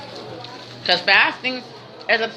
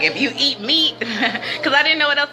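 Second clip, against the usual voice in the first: laughing; 5 semitones higher than usual. Retold or imitated. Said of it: "I was like".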